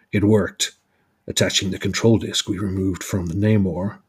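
lightly put-on American accent; a measured attempt at an American hero's accent; Captain America accent. Narrator redoing Captain America's line, lightly American accent. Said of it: "I need to do Captain America accent".

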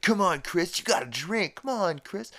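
high, insistent egging-on; mock peer pressure. Kids urging Chris to drink in the bathroom, high mock egging-on. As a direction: push him in a high, loud mock kid voice.

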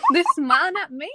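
high Southern voice with a laugh; baffled question in a Southern accent. Acted. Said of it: "Zuko with a southern accent".

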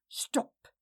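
sharp whispered stop; whispering. A narrator's reading. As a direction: hiss it under breath. Farewell cuts in.

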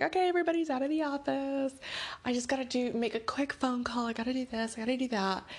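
retold hurried listing, starting high; hurried rattle. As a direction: rattle off errands in a mock rush. Retold coworker rattling off chores.

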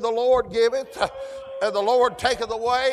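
acted Job raising his voice. Preacher voicing Job praising God, loud.

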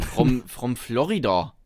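slow, heavily accented action-star impression; Arnold Schwarzenegger. Host claims he's from Florida, slow Austrian-accented parody. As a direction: parody thick Austrian-accented English, drawn out. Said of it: "Arnold Schwarzenegger kann auch sagen".

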